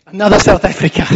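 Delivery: put-on quick, lightly done South African accent; a hint of a South African accent. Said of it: "Sorry about the poor South African accent".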